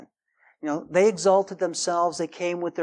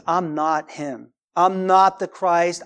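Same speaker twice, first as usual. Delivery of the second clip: slow, deliberate "not", each word weighted; firm, drawn-out stress on "not"; emphatic denial; 4 dB louder, slower than usual. Acted. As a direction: lean on "not" and spell it out slowly. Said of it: "There's emphasis in the scripture".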